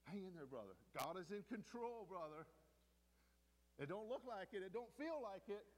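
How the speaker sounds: high, urgent encouragement; impassioned pep talk; exhorting a brother. Acted. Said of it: "exhorting one another".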